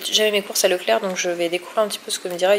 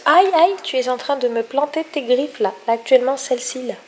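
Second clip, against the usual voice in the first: ouch, in pain; 5 semitones higher, 5 dB louder than usual. Real, not acted. Cat claws her, says ouch.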